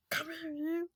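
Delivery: hammed-up playful grab; playful pounce. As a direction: lunge at her with the line.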